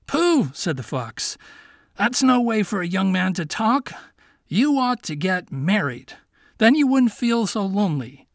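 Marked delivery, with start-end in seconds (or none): 0.1-0.5 high dismissive pooh; scoffing pooh. Acted. Fox scoffs. 1.9-8.3 higher, light-voiced little fox; a sly young fox asking his friend. Fox advises Miko.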